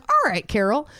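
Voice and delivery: high, exasperated challenge; comic cross-examination, pitched high; mock confrontation. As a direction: take Carol to task. Acted retort to Carol.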